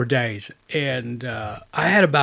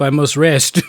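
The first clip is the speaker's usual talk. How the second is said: louder laughing mock French voice; 7 dB louder than usual. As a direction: laugh through a fake accent. Mocking the tired fixer.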